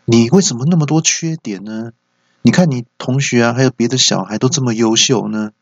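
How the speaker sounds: mildly fed-up parental nag; retold scolding. Father fed up with son's many faults, mock scolding. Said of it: "我就念他说".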